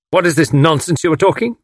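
a touch of a snarl, impatient. A narrator's reading. Villain cuts off captive's banter, mild snarl. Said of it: "snarled the other".

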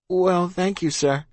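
high-pitched obedient youngster; meek child. A narrator's reading. Child to snapping officer, high and obedient. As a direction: answer up high, eager to placate. Child takes leave politely.

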